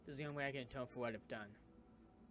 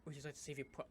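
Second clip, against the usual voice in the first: louder and slow, drawn-out exclaiming; loud reaction; 4 semitones higher, 12 dB louder, slower than usual. Real, not acted. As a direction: stretch out the disbelief. Player reacting loudly.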